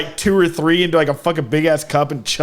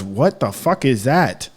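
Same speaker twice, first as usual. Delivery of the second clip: slow mock French-accented bafflement; French Kermit the Frog; 3 semitones lower, slower than usual. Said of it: "like a French Kermit the Frog".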